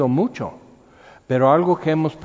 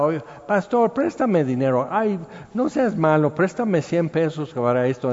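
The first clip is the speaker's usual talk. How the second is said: pleading borrower; 4 semitones higher than usual. Retold or imitated. Imitating borrowers asking money.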